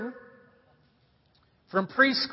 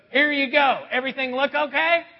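gruff waitress; 3 semitones higher, 3 dB louder than usual. Retold or imitated. Grumpy waitress setting down the bill, lightly gruff. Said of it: "she kinda has this gruff voice".

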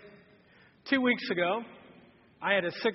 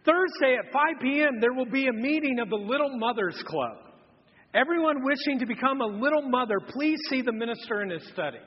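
announcement read; 3 semitones higher than usual. Real, not acted. Reading bulletin blooper aloud.

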